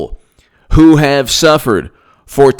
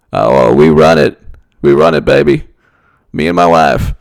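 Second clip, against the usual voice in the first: smug Clinton boast; 6 semitones lower, 4 dB louder than usual. Pretend. Pretending to be Bill Clinton, a smug boast. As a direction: gloat like you own the party machine.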